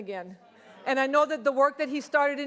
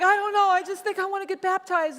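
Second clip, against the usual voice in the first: high, laughing retelling of her own words; giggly mock confession; 7 semitones higher, 3 dB louder than usual. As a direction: laugh through it, a bit sheepish. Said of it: "I'm like".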